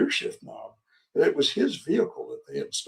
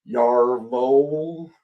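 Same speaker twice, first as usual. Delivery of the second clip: German reply; 3 semitones lower than usual. Retold or imitated. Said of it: "says something to him in German".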